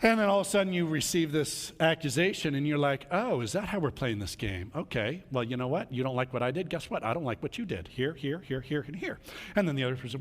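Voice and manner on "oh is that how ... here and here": low, soft, sarcastic tit-for-tat; a cold, quiet jab back at a spouse; snide retort. Acted. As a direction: needle them quietly, point by point.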